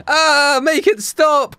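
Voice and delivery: high, loud pained cry; mock scream of pain. Daniel tormented by voices, hammed-up scream. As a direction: scream it out, hamming up the agony. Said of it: "I scream over the pain".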